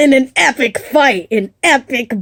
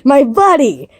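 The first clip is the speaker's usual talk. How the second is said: fake friendly; 4 semitones higher than usual. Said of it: "trying to look more polite and friendly".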